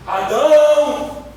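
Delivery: long, drawn-out call of a name. Acted. God searches the garden for Adam, calling out.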